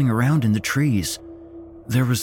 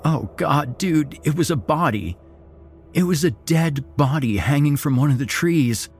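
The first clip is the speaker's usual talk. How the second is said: terrified; 8 semitones higher than usual. Acted. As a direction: gasp it out in horror. Terrified friend reporting body.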